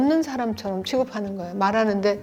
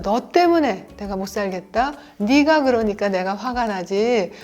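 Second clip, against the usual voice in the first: irritated blame; 3 dB louder than usual. Shown as a demonstration. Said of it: "방어라는 말투인데요".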